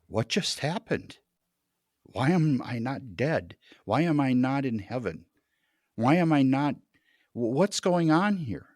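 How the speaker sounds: rising, bewildered questions in disbelief; confused and upset. Retold or imitated. Man waking in the ICU, asking why he's alive, shaken. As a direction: ask it lost and shaken, voice climbing. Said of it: "I'm confused. I'm crying".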